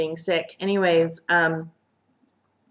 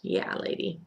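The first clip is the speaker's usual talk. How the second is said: smirking scoff; slower than usual. Retold or imitated. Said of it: "does that little smirk like".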